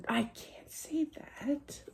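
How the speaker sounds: unvoiced, slow whispered aside. Real, not acted. Medium whispering to herself she can't repeat it. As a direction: hush it as if not allowed to say it. Catching herself mid-reading.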